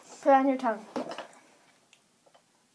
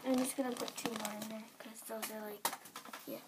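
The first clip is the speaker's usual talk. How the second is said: cheeks stuffed full. Real, not acted. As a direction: mouth crammed with marshmallows. Mouth packed with marshmallows.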